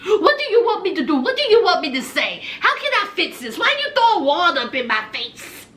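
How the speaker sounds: imitating a rapid whiny plea; exasperated pleading. Boyfriend pleading with girlfriend in hotel room, exasperated. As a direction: fire off the questions, mock desperate.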